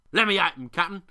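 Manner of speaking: loud, eager threat; mate begging to go at the raven, loud growl. A narrator's reading. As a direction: growl it, itching for a fight. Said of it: "growled Extrovert".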